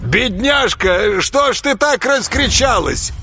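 slow, high, falsely gentle coo; creepy honeyed villain; mock tender. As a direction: soothe her with menace underneath. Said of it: "ласково зашелестел Курдюм".

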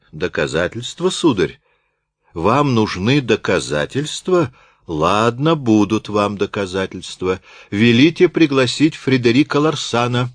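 a mild sharp comeback; parry the challenge crisply; sharp retort. Acted. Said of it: "резко отпарировал Рультабиль". (резко, с вызовом)

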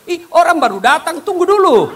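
high, loud flustered objection; startled protest. Acted. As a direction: blurt it out caught off guard. Startled dead man protests. (kaget memprotes dengan suara tinggi)

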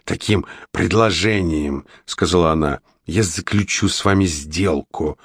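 sea witch voice. Acted. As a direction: purr like a scheming sea witch.

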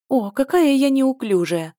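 high, slow, loud dismayed cry; clumsy exclamation. Acted. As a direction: gasp out her own clumsiness. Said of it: "воскликнула она". (громкое растерянное восклицание)

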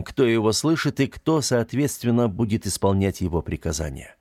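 ordinary delivery

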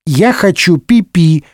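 put-on slow, high whiny little boy; whining child. Second Louis nagging again, slow whiny plea. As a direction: whine it like a toddler. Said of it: "нытьё второго".

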